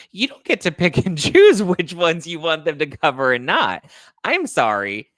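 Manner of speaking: high, loud indignant outburst; fired-up, exasperated objection; pissed off. Real, not acted. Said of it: "just pissed me the fuck off".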